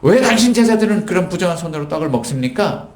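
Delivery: imitating accusers demanding an answer; retold protest. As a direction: challenge him as an indignant objector, acted lightly. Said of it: "예수님께 몰려서 막 항의를".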